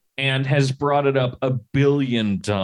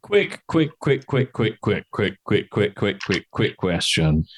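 mock urgent; 4 semitones lower, slower than usual. Repeated quick falling in pitch.

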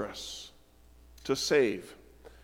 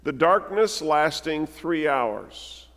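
scripture reading. Acted. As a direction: let the darkness settle as you read.

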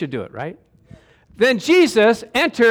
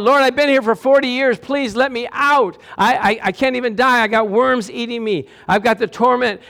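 pleading cry; 5 semitones higher than usual. Retold or imitated. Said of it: "and crying out".

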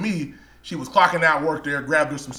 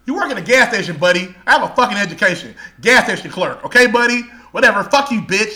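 mock angry rant, a bit louder; snapping at her like a rude clerk; retold insult; 3 semitones higher, 4 dB louder than usual. Clerk mocking the woman, mock angry rant.

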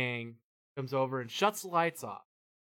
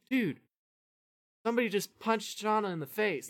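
higher, rushed warning to a friend; urgent alarm; 7 semitones higher than usual. Retold or imitated. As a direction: blurt out the bad news. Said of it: "and he's like".

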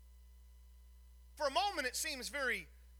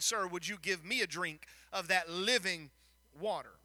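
polite request; 4 semitones lower than usual. Shown as a demonstration. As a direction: ask gently and respectfully, sir and all. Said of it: "but you'd have said".

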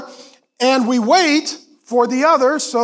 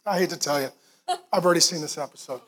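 low, soft guilty admission with a laugh; sheepish confession; 8 semitones lower, 8 dB quieter, much faster than usual. Retold or imitated. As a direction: confess it quietly, a bit ashamed. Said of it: "I said".

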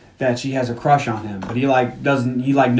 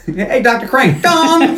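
high, loud, laughing bro shout; Bulldog's gong call; 9 semitones higher, 3 dB louder, much slower than usual. Retold or imitated. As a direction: bang the gong and yell it like a jock. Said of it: "brings in his gong and goes".

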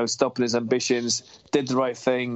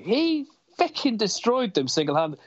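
excited praise; 8 semitones higher than usual. Real, not acted. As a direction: pitch jumps higher with passion. Passionate fan praising hero.

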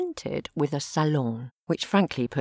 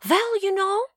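Martin voice. A narrator's reading. Martin's voice held.

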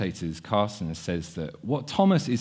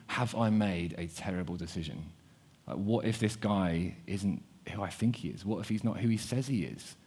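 softer, hushed worrying to oneself; quiet nervous second-guessing; anxious inner doubt; 3 semitones lower, 8 dB quieter than usual. Acted. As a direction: voice the doubt quietly, as a private fear. Disciples' anxious inner thoughts.

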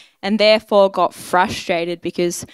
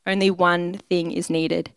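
slowed and softer, each word weighed; slow, soft emphasis; 4 dB quieter than usual. Shown as a demonstration. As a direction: let "Only one thing is needed" land slowly and quietly. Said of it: "it's simple".

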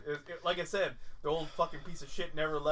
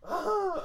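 mock exclamation; 13 semitones higher than usual. Imitates the professor's reaction.

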